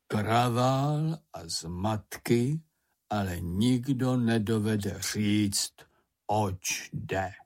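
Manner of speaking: very slow, drawn-out grumbling voice; grumbling to himself. A narrator's reading. Stamp collector alone in the woods, grumbling. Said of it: "něco si pro sebe brblá".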